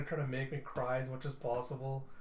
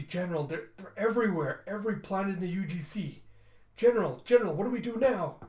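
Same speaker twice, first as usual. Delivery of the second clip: high, loud frantic report; acted panic; 6 semitones higher, 6 dB louder than usual. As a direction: build to a desperate plea for orders.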